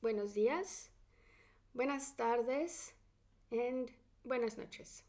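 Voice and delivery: buenas tardes and buenas noches slow and clear; teacher models greetings. Shown as a demonstration. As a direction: say each greeting slowly for learners. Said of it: "these three phrases".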